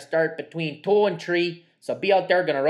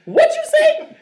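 laughing disbelief; 11 dB louder, slower than usual. Real, not acted. Laughing at a misheard line.

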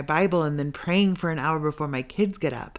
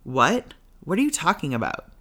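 retold mad retort. Answering God in the dining room, mock indignant retort. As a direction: fire it back at him like you're annoyed. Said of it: "To which I obviously responded madly".

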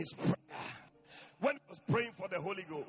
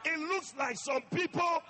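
louder mock wondering question; heaven asking; 7 semitones higher, 7 dB louder than usual. Heaven wondering about the cathedral, lightly voiced. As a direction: ask like heaven peering down. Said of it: "heaven will be asking".

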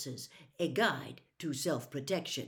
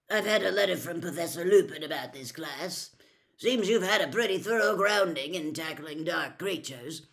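gruff; 6 dB louder than usual. Acted. Moody addressing the class.

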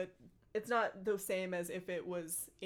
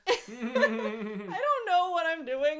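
laughing helplessly; 8 semitones higher, 9 dB louder than usual. Real, not acted. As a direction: protest while cracking up. Reader overcome with embarrassed laughter.

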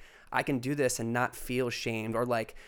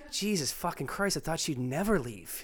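like a guy would; 4 semitones higher than usual. Retold or imitated. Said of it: "Sarah says something like a guy would".

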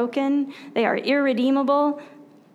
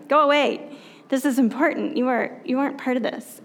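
mildly stern mock dismissal; stern order; faster than usual. Disciples ordering the children away from Jesus, mildly stern. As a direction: act out a stern telling-off, lightly. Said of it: "Sternly. Ordered them".

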